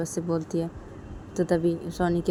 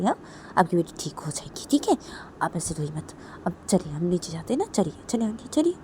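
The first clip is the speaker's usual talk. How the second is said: gentle coaxing. Acted. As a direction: coax her along gently, still comforting. Voices consoler coaxing aunt downstairs. (नरमी से मनाकर ले चलना)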